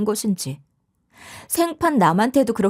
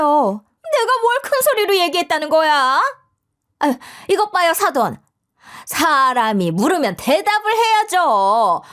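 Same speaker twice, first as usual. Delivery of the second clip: high, drawn-out indignant denial; loud-mouthed mother-in-law; 6 semitones higher than usual. Acted. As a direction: badger the silent in-law, stretching the words. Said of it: "그 큰 목청으로". (큰 목청으로 몰아세우는 시어머니)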